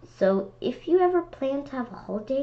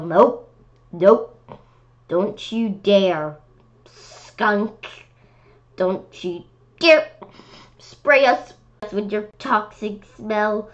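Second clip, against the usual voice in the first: urgent pleading; 2 semitones higher, slower than usual. Pretend. Pleading with skunk in story.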